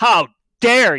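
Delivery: top-of-the-lungs scream, very loud. Player's character shouts to catch the attention of anyone nearby, very loud shout. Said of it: "Very loudly".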